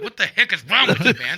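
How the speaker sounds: playfully recreate telling off a friend; mock yell. Host reenacting yelling at his friend, mild mock yell. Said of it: "I think I yelled at him".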